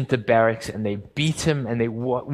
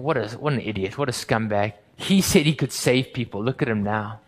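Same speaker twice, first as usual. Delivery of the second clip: mocking; 3 semitones lower than usual. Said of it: "passers-by are mocking him".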